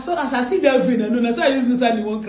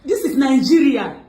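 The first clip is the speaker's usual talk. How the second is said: raised, urgent accusing voice; mock scolding; 3 semitones higher, 3 dB louder than usual. Prankster blaming Annie for what happened, mock scolding. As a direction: scold her in pretended panic. Staged scolding over hurt friend.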